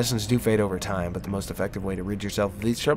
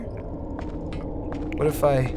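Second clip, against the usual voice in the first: slow unvoiced whisper; 4 semitones higher, much slower than usual. Real, not acted. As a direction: breathe it out, barely audible. Hiding from monster.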